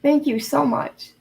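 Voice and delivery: overwhelmed gratitude, close to tears; emotional thanks. Real, not acted. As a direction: voice lifting with emotion, slowing down. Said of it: "I know I'm getting emotional".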